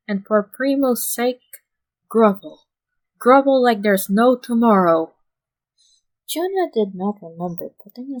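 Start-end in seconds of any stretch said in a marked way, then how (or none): 0.1-5.2 louder, leaning hard on grovel; emphatic order. A narrator's reading. Boss orders Yamamoto to apologize, forceful and loud. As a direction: drive home grovel like a stern boss.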